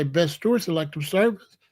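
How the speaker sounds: a hint of a formal phone greeting; lightly voiced office lady answering; mother picking up the phone at work, mild formal work voice. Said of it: "That's two different voices".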